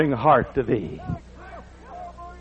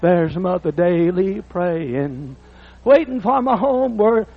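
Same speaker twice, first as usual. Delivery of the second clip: bass singer; much slower than usual. Retold or imitated. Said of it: "And the bass sing".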